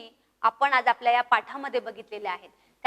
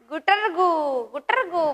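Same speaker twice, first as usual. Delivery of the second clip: pigeon coo; 3 semitones higher, slower than usual. Shown as a demonstration. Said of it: "कसा?".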